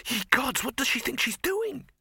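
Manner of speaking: a sudden rise of alarm at what she's doing. Acted.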